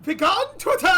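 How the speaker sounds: mock dramatic banishing. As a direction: banish it like a wizard.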